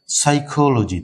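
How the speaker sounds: সাইকোলজি begun on s, no p sound; teacher model of সাইকোলজি; silent p. Shown as a demonstration. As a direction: say সাইকোলজি as "saikoloji". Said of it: "এস থেকে উচ্চারণটা শুরু হচ্ছে".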